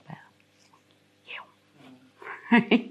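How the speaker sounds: whispered defiant jab; muttered retort. Retold or imitated. Mother mutters back at the psychiatrist, whispered jab. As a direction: breathe out a cheeky insult. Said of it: "I'm like".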